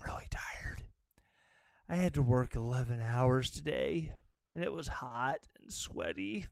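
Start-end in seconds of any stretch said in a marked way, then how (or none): 0.1-0.8 whisper. Real, not acted. Tired host aside to viewers.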